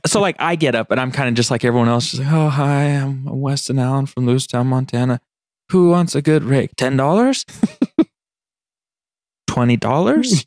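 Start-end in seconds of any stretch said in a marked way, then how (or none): 2.3-10.5 unsure beginner, every price lifted like a question; timid rookie auctioneer, uncertain rising bids; everything a question. Retold or imitated. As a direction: ask each bid instead of calling it. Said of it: "every bit was a question".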